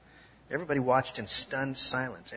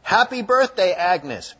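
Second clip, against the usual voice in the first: much higher, much louder surprise shout; group yell; 7 semitones higher, 10 dB louder, slower than usual. Retold or imitated. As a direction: shout it like the whole room at once. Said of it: "Everybody yelled together".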